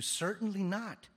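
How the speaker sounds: high, loud, slow certainly not; emphatic denial. Acted. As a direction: thunder it out as a firm refusal. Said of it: "his emphatic answer".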